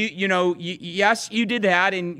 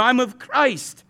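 slow, drawn-out snooty "I'm of Christ", a bit higher; snobbish; 4 semitones higher, much slower than usual. Retold or imitated. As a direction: say it like you're above everyone. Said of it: "the most snobbish of all four".

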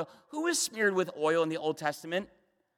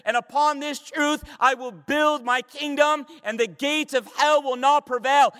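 raised, driving sermon delivery; impassioned preaching; 3 semitones higher, 4 dB louder than usual. Real, not acted. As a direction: build with conviction to a forceful declaration. Preaching at full force.

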